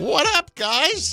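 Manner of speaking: very high-pitched, nerdy voice. Teasing a co-host about his greeting: imitating Tom's trying-to-fit-in greeting. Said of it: "just the way you say it".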